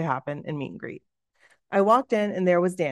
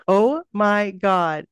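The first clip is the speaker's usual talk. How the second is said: very drawn-out, louder starstruck exclamation; 5 dB louder, much slower than usual. Retold or imitated. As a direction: stretch each word in retold awe. Retelling starstruck moment meeting idol.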